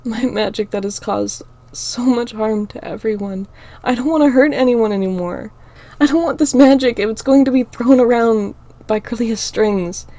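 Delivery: high, loud tearful outburst; cried out. Acted. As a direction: let the sobs push the words out. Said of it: "I cried out".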